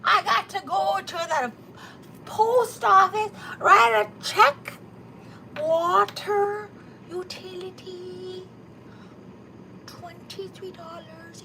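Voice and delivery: mock the mother's fussing over bills; imitating her mother. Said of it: "you know, when they".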